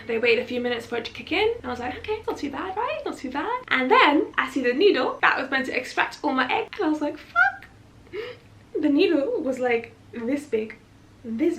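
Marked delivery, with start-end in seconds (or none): 2.0-3.6 self-reassurance. Retold or imitated. Reassuring herself before the needle. 7.2-7.7 very high, loud squeak of shock; alarmed curse. Retold or imitated. Patient seeing the huge needle, high alarmed yelp.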